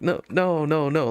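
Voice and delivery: smiling denial. Retold or imitated. Clerk placating an offended customer, smiling denial. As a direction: imitate denying it with a nervous smile. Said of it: "smiling, and I'm like".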